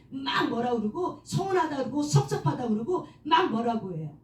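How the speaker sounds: ordinary delivery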